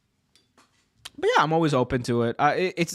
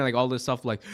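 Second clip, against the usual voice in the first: normal talking voice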